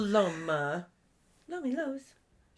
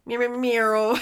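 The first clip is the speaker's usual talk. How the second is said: playful mock meowing; silly kitty meows; cat meows; 4 semitones higher, 6 dB louder than usual. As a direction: meow like a cat.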